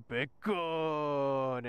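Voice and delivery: long drawn-out mock-Korean "bacon"; imitated Korean accent. Korean man radios on the walkie-talkie, imitated Korean accent. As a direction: stretch both syllables in a put-on Korean accent. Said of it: "he says it just like that".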